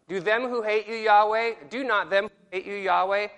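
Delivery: reads the verse leaning hard on them; stressed reading. Shown as a demonstration. Teacher reading scripture aloud with heavy inflection. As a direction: punch each them and Yahweh. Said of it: "I'm adding my inflection".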